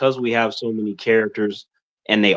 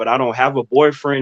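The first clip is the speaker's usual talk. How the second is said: ordinary talk, nothing marked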